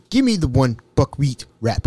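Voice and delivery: measured, lightly imitated African accent; touch of a formal African voice. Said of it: "Mbutu was an African".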